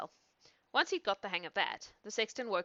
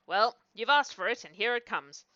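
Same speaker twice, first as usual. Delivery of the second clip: louder, fed-up yell; 3 semitones higher, 8 dB louder than usual. A narrator's reading. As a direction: yell it as you charge. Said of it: "he yelled".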